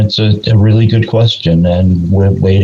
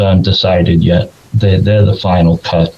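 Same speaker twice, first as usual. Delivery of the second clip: hoarse, worn-out voice; losing voice. Real, not acted. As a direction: talk through a voice that's going. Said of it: "I'm losing my voice here".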